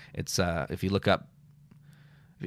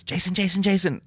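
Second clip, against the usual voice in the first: high, loud call across the street; calling out a name; 12 semitones higher, 4 dB louder than usual. Retold or imitated. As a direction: call his name eagerly from afar. Mother-in-law calling him out.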